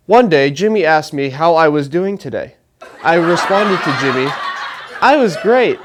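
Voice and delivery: lightly hammed-up, overly formal storytelling; mock essay recitation. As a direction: recite small talk like a school composition. Parodies essay-style answer to small talk.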